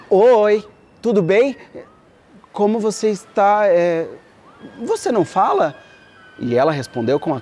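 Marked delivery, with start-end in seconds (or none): 0.1-5.7 prince. Acted. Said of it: "o príncipe disse".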